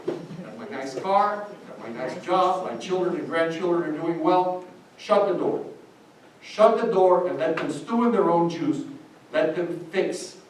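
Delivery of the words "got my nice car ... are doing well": mock self-satisfied boasting; smug comfortable voice. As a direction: play the comfortable exile, pleased with himself. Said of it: "stand up here and say".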